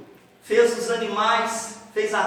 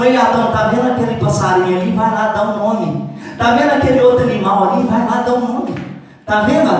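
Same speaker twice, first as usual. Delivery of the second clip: God speaking to Adam; 4 dB louder than usual. Acted. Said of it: "Deus fala assim com Adão".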